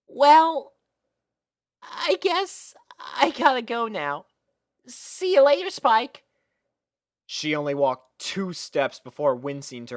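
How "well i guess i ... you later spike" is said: put-on much higher, bright young filly, flustered; high girlish Sweetie Belle voice. A narrator's reading. Sweetie Belle saying goodbye to Spike, high and girlish. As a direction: pitch way up into a little girl's voice.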